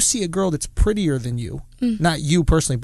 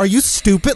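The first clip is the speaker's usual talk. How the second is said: put-on angry, heated, disbelieving tone; 4 semitones higher, 4 dB louder than usual. Retelling how Carly Aquilino answered the speaker: imitating Carly Aquilino angry.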